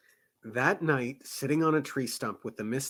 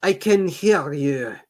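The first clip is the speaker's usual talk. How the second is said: slower, louder anxious guard's call; 4 semitones higher, 8 dB louder, slower than usual. Acted. Guard nervously calling to an unseen stranger, anxious. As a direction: call out nervously, slow and high. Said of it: "the guard said anxiously".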